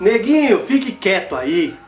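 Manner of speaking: mock dismissal, slowing at the end; blunt mocking paraphrase. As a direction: voice her message as a dismissive order. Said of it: "É isso que ela quer dizer".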